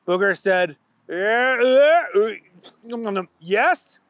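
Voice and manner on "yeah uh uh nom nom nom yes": raised startled voice, munching; guilty candy muncher; caught with full mouth. A narrator's reading. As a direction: stall while chewing candy. Booger caught eating.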